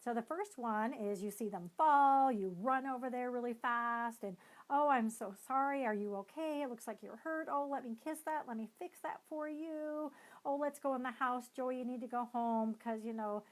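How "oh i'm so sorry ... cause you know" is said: smother the kid with pity, hammed-up; overdoing parent. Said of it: "you kind of overdo it".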